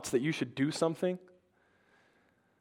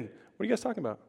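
soft, higher, everyday question; casual Jesus; 5 semitones higher, 8 dB quieter, faster than usual. Acted. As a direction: drop to a light, quiet, offhand voice. Jesus' casual line after the boom.

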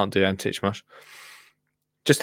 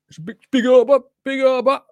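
mock amazement; 13 semitones higher, 5 dB louder than usual. Marvelling at huge garden arbor.

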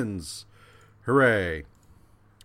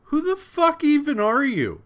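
much higher, louder mock outburst; furious yell; 8 dB louder than usual. Johnny snapping at the stranger in a mock outburst. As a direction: scream it like you've lost it. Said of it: "And Johnny's like".

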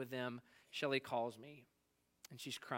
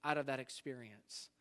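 a hint of David's plea, raised, fading at the end; voicing David's prayer; 4 semitones higher, 4 dB louder than usual. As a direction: lift it then let it sink. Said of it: "He's like".

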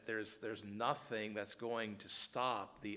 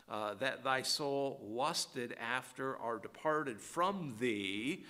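raised, steady reading of a long list; scripture reading; 3 semitones higher, slower than usual. Acted. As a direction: read each item with weight.

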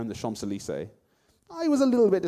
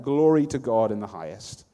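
crying out; 8 dB louder than usual. A narrator's reading. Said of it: "cried out".

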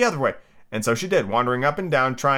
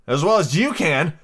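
Tiger Lily; 4 semitones higher, 4 dB louder, slower than usual. Acted.

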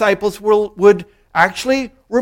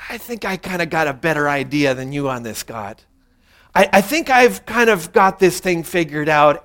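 smug inner voice; 4 semitones lower than usual. Retold or imitated. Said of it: "we're thinking".

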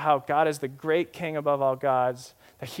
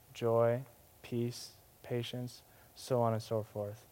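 soft listing; 5 dB quieter than usual. Acted. Listing the fruit of the Spirit.

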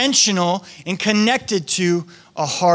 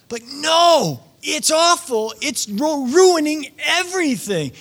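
higher, insistent spouse voice; exasperated spouse; 8 semitones higher, slower than usual. Retold or imitated. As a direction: push back hard on the excuse. Spouse voiced answering partner.

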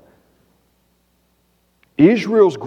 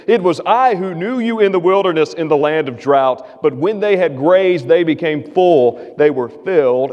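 raised, declaiming reading of God's words; scripture reading; 3 semitones higher than usual. Acted. Pastor reading Hosea to the congregation, declaiming and raised. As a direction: proclaim the verses as God speaking.

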